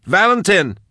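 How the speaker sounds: high, contained scream. A narrator's reading. Max screams for the endangered gunman, high alarmed cry. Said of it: "Max screamed".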